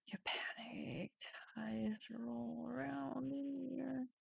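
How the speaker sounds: slow hushed dramatic whisper; panicked whisper. Acted. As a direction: breathe it out like you're choking. Dramatic reading of the panic scene.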